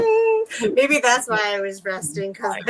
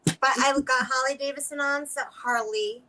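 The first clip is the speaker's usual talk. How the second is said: Boston accent slipping out; 4 dB quieter than usual. Real, not acted. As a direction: drop the r in Harley, Boston style. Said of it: "my Boston accent came out".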